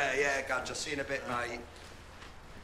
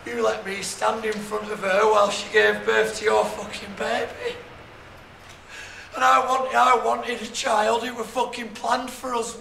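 angry; 6 dB louder than usual. Acted. Angry confrontation with former friend.

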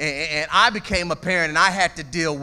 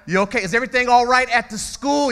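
higher, fast, fake-concerned coworker; pry with sugary concern; nosy coworker; 8 semitones higher, 4 dB louder, faster than usual. Preacher mimicking eavesdropping coworker, mock sweet concern.

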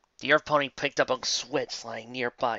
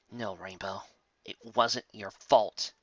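gentle; 2 semitones lower, 3 dB quieter, slower than usual. Acted. Applejack consoles Rainbow.

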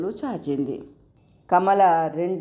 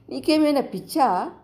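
pitched high, half-laughing disbelief; are you out of your mind; elder sister scolding in high disbelief; incredulous scolding; 9 semitones higher than usual. Acted. Sister scolds over the bangles.

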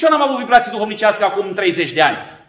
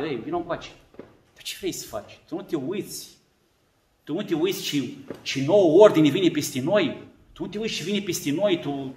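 hushed, scolding aside to Nestor; emperor voiced. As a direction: warn him off under the breath.

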